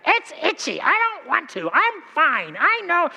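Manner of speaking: put-on high, sulky little kid refusing; high stubborn kid's voice; whiny child. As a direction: whine like a four-year-old brushing dad off.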